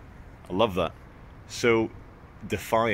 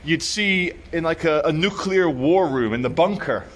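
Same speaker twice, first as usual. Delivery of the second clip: builder describing; 5 semitones higher than usual. Retold or imitated. Builder tells the vlogger about the giant screen, higher and awed. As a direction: paint the war-room screen with growing wonder. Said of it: "he said".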